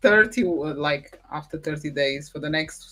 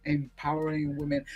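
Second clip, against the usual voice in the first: sexy voice; 5 semitones lower, 7 dB quieter than usual. Shown as a demonstration. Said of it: "I'm gonna practice this way".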